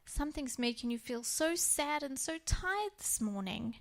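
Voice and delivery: put-on soft and gentle, soothing a child. Mother soothing upset daughter before school, softly gentle. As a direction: ease her upset with a soft voice. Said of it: "I just gently said".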